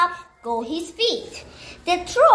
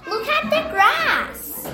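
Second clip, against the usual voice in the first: high little goat voice; 11 semitones higher than usual. Acted.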